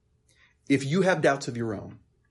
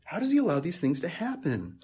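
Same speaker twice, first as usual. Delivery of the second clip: higher, soft, breaking questions; anguished whisper; 6 semitones higher, 5 dB quieter than usual. Retold or imitated. A doubter asks God why, in a pained whisper. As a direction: ask God in quiet despair. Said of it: "cause us to think things like".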